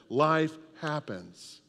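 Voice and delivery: Life happens, drawn out slowly; slow emphatic repeat. Shown as a demonstration. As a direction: lean on it slowly so they repeat it. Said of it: "Say that".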